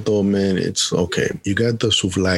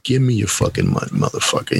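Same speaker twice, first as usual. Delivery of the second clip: mock Greek vendor; 4 semitones higher, faster than usual. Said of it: "they're like".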